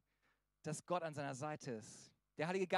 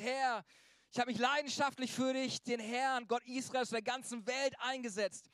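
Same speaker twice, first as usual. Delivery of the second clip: louder, higher, hammed-up lament of Elijah; despairing Elijah; 3 semitones higher, 4 dB louder than usual. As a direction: play Elijah pouring out his misery to God. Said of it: "Also jetzt so voll den Blues".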